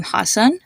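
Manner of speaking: "Hassan" with both A's as in fun; UH vowels in Hassan. Shown as a demonstration. Teacher giving an example name, "Hassan" with uh vowels. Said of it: "pronounced with a uh sound to it".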